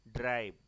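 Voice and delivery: teacher stretches ड्राइव's vowel for the class; dragged vowel. Shown as a demonstration. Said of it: "हमने आई को यहाँ पे drag किया".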